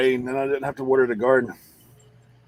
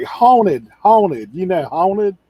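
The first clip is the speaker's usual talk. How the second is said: louder Haunted, haunted, pressed hard; insisting on the word haunted to a yard-sale lady; insistent repeat; 5 semitones higher, 6 dB louder, much slower than usual. Retold or imitated. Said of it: "he's like".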